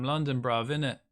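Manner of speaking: mock London accent with bruv, innit. Shown as a demonstration. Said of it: "Every time I tried to make a T T S with my voice".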